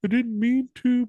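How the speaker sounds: high little-boy imitation; high-pitched pretend apology; mock contrite child. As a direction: plead small and high, like a kid. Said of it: "And he's like".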